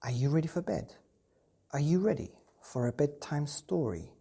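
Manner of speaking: bright, friendly bedtime host; reading to children. Acted. Host greeting children at bedtime, bright and friendly. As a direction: welcome the little ones warmly.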